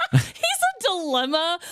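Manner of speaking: high, laughing repeat of the joke; laughing echo. Real, not acted. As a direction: laugh it back at him.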